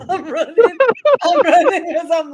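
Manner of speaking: cracking up while telling it; laughing. Real, not acted. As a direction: laugh the words out. Laughing while telling own escape.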